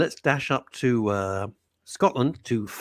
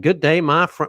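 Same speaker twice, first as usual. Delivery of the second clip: put-on greeting voice; 5 semitones higher, 7 dB louder than usual. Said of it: "He doesn't talk like that at all".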